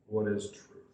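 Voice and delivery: low, soft, offhand question; throwaway line, voice dropped; dismissive Pilate. Acted. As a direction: toss the question away. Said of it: "Throws it off".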